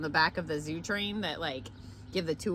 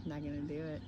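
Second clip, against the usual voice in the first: George Bush impression; 5 semitones lower, 10 dB quieter than usual. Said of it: "Oh, George".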